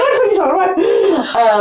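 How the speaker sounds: imitated bafflement. Retells his baffled reaction, laughing.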